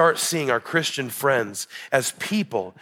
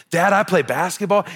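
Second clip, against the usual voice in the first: put-on higher toddler voice, words swinging up; two-year-old impression; 6 semitones higher, 3 dB louder than usual. Two-year-old tells dad about basketball, imitated toddler voice. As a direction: imitate a little boy's lilting report. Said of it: "that's how his voice is".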